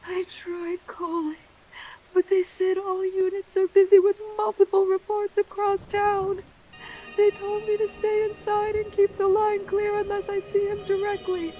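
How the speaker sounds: rising fear as you imagine him inside; frightened. Acted. Hiding caller tells radio host he may be upstairs, frightened.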